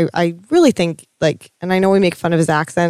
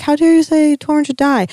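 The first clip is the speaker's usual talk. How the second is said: mock outraged fan; 9 semitones higher than usual. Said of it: "don't people say".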